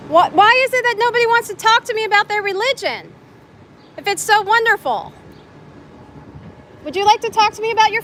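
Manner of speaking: mock exasperated. Real, not acted. Calling after people who won't talk.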